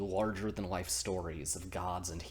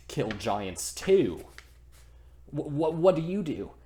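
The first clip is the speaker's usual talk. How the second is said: louder, slowed brag then higher stammer; boastful challenge; 6 semitones higher, 7 dB louder than usual. Acted. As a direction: taunt him back. Harbard one-ups Thor.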